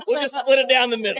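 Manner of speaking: laughing while talking. Real, not acted. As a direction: say it through a laugh. Laugh heard.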